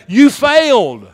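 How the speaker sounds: loud, high, drawn-out jab; teasing call to neighbor. Pretend. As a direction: tease the person beside you. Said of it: "Look at your neighbor and say".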